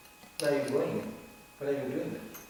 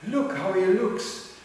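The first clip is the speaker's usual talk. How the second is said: naive admirer; 8 semitones higher than usual. Retold or imitated. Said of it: "Don't go".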